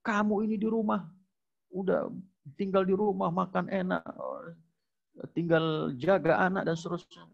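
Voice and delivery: a hint of a husband berating his wife; mock angry husband. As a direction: scold the wife like a belittling husband, mildly acted. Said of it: "suami marah dengan istrinya dan mengatakan".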